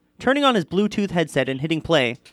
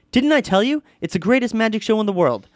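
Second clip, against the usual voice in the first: higher, excited showman's pitch; boasting magician; 6 semitones higher than usual. A narrator's reading. Crazed magician answering his alarmed girlfriend, excited showman. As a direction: sell the show in a raised, eager voice.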